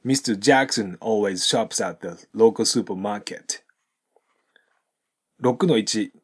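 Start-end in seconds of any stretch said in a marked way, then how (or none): 0.0-3.6 "shops at the" joined, T swallowed; slow model sentence with "always shops at the" linked; linked throughout. Shown as a demonstration. Teacher says it through for learners, "shops at the" run together. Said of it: "もう一度通して発音すると".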